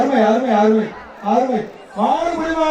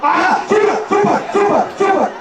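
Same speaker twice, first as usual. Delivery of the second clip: excited cheering; 6 semitones higher than usual. Real, not acted. Announcer cheering a catch.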